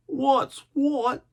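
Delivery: a growled pirate retort; gruff buccaneer growl; deep growl. A narrator's reading. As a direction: snarl the words back at the boy. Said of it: "in a deep growl".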